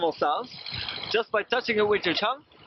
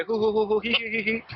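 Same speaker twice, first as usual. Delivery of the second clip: monkey call; 3 semitones higher than usual. Shown as a demonstration. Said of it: "with the monkey, I say".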